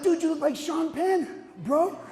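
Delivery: excited, high-pitched buddy exclamation; high, drawn-out playful amazement; amazed ribbing. Retold or imitated. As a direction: pitch it up high, marveling at a friend. Friends react to Randy's makeover.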